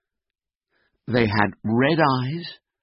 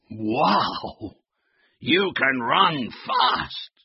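drawn-out "wow" of admiration; amazed; 3 semitones higher, much slower than usual. Acted. Huskies impressed by Floppy's speed, amazed. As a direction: marvel slowly, stretching the key words.

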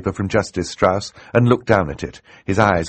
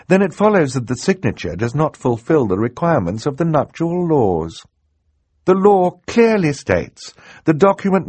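high-voiced judge building her argument; careful reasoning; 10 semitones higher, 4 dB louder than usual. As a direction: reason it out, growing firmer and louder. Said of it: "she said carefully".

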